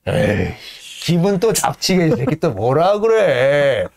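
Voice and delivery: slow, sneering grumble of a lightly voiced stoker; mock jeer. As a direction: jeer at the speaker, slowly. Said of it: "야유를 막 퍼붓죠". (롱에게 야유하는 화부들, 느린 비아냥)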